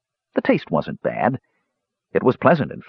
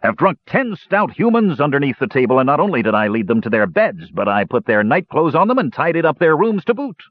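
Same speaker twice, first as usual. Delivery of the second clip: higher, lightly voiced indignant dwarf; heated dwarf boast; 8 semitones higher than usual. A narrator's reading. Dwarf topping the brothers' drinking boast, heated. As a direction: outdo their boast with heat. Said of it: "his face turning a fiery red".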